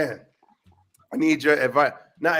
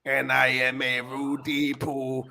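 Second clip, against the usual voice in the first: slow, heavy wrestler promo voice; lightly voiced wrestler taunt, slow; Kane impression; much slower than usual. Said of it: "Sound like fucking Kane".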